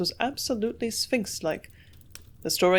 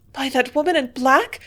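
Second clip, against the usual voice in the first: frightened shriek, higher and louder; 7 semitones higher, 6 dB louder than usual. A narrator's reading. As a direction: shriek it in terror. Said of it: "she shrieked".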